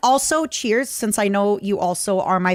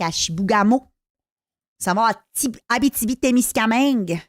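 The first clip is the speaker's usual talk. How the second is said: put-on Québécois accent. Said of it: "I have a Canadian accent".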